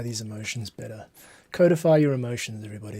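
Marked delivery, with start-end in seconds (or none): 1.5-3.0 hammed-up public advice; mock proclamation. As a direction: announce it like a grand motto. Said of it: "That's, that's my advice".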